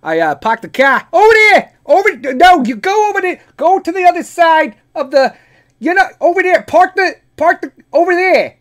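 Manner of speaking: very high, loud, exasperated Boston shouting; angry Boston guy. Acted. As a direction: yell directions in a hammed-up Boston accent, losing patience. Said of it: "they get fucking angry".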